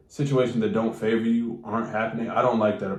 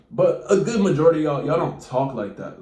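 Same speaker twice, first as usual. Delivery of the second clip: higher, louder, insistent; loud emphatic; 5 semitones higher, 4 dB louder than usual. Acted. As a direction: push the point hard. Emphatic point.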